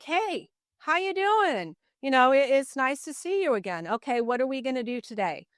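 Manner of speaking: bright, high, cheery hello; sing-song friendly hello, unbothered; cheerful greeting. Retold or imitated. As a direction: greet him breezily, all smiles. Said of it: "I was very happy and level-headed".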